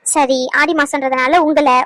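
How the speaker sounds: impatient, drawn-out repeat; imitated hesitation. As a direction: slowly echo someone's halting words. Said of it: "இப்படியே சொல்லிக்கிட்டு இருந்தா என்னன்னு அர்த்தம்".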